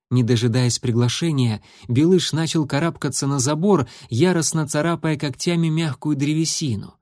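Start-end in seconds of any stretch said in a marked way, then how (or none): none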